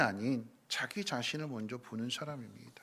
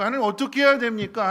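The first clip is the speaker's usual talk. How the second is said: high, loud cry to God; loud plea; 8 semitones higher, 14 dB louder than usual. Acted. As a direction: call out to God urgently. Moses pleading to God. (하나님께 크게 부르짖는 모세)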